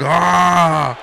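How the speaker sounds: imitated wrestler's groan. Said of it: "He's like".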